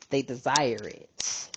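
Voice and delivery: low, drawn-out emphasis; slowed right down, low-pitched; slow, deliberate. Real, not acted. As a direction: let each word land slowly. Repeats the point slowly.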